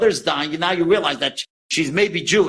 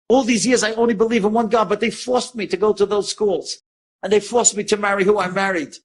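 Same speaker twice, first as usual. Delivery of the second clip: higher, insistent retold protest; impassioned protest; 5 semitones higher than usual. Mother insisting she was forced into Christian life, impassioned. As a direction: imitate a woman pleading her true belief.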